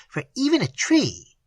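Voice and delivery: high, proudly lifted voice. A narrator's reading. The mate proudly points to her easel, pleased. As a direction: show off your painting with pride. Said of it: "she added proudly".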